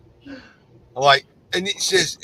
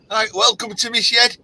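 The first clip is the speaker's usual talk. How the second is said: lightly raised, a mild channel-host catchphrase; signature greeting; 8 semitones higher, 3 dB louder than usual. Retold or imitated. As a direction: greet the crowd as if on his channel. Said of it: "I said".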